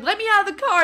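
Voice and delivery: high, loud acted plea; retold urgent demand. Passenger to strangers in the car, urgent retold demand. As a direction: call it out urgently, well up in pitch.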